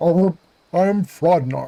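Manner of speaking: put-on giant frog character voice. Imagining the character as a giant Muppet frog: giant Muppet toad voice. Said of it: "a giant frog character, like Kermit the Frog, but bigger".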